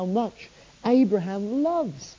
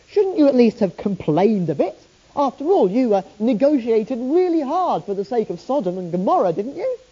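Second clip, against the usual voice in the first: higher, louder indignant question; angry at Abraham; 5 semitones higher, 3 dB louder than usual. Retold or imitated. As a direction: challenge Abraham, exasperated. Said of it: "strangely angry with Abraham".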